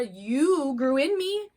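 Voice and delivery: hammed-up outraged mom; mock shocking. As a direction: lay it on thick to startle a daughter. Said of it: "Sometimes I shock her".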